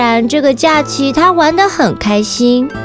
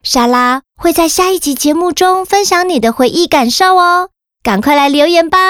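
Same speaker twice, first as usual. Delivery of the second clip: put-on kids show host. Host addresses children after story.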